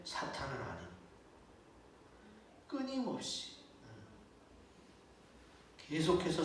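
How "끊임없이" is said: high, measured emphasis on 끊임없이; stress on 끊임없이. Real, not acted. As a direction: repeat 끊임없이 on a high pitch that drops at the end. Preacher repeats the key word.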